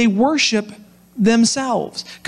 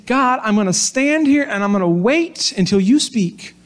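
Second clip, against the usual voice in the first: patient, trusting, hopeful wait; lightly voiced calm trust, waiting to hear back; positive tone. Preacher voicing Habakkuk's patient hope to God, gently trusting. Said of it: "was that a positive tone".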